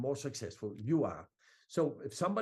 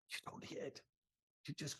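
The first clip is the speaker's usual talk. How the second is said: whisper; 12 dB quieter than usual. Shown as a demonstration. Coach stage-whispers sales advice.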